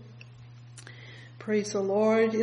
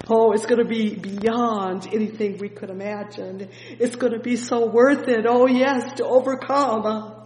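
louder, ringing sermon build; full-force gospel preaching; fervent preaching; 2 semitones higher, 7 dB louder than usual. Acted. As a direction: preach it out with rising fire.

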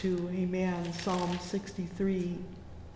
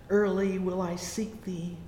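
usual speaking voice

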